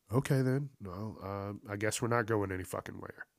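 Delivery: dropping quiet, shrugging it off; resigned aunt. Retold or imitated. Aunt to the kids, quiet resigned shrug. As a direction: let it go, calmly resigned. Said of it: "That's exactly what she said".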